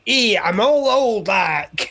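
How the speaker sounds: lightly voiced old man, drawn out; slow mock old-codger voice, falling away at the end; comic old man. Actor showing off his instant old-age transformation, lightly put-on old man. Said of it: "it was one where he was being old".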